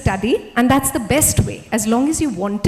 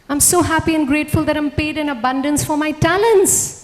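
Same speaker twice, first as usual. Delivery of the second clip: proclaimed affirmation; 4 semitones higher, 5 dB louder than usual. Shown as a demonstration. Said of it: "affirmation demo".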